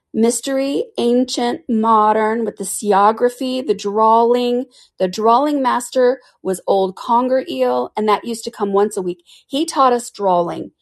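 high, slow, drawn-out listing; Mock Turtle counting subjects on his flappers, slow and high; dreamy Mock Turtle. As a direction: count off each subject wistfully.

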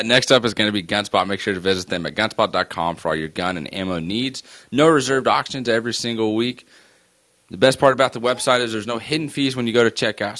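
brisk sponsor read with a push; upbeat ad read, rushing the middle. Acted. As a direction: sell it like a radio spot.

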